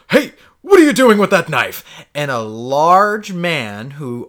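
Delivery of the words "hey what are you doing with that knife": calling out louder; retold shout. Narrator voices a stranger, a loud challenging call. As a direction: shout it across the alley at the knife guy. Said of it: "the guy goes".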